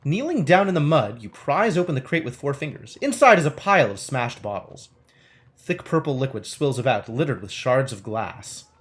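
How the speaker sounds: measured game-book narration; story narration. Acted. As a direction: read it out like an adventure storyteller. Reads game text aloud.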